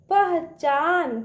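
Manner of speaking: पहचान slow, syllable by syllable; sounding out syllables. Shown as a demonstration. Teacher reads a word in pieces for kids, slowly. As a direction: break पहचान into slow parts. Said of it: "उसको तोड़ तोड़ पढ़िए".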